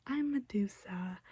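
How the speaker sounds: slow, whispered, lightly sing-song Medusa; a hint of a sweet, sinister lure; retelling Medusa luring them in, slow mock ASMR whisper; evil sing-songy ASMR voice. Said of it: "her little evil sing-songy A S M R voice".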